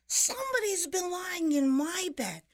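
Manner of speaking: loud, very high little bear voice; baby bear's high-pitched, outraged shout. A narrator's reading. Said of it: "he shouted".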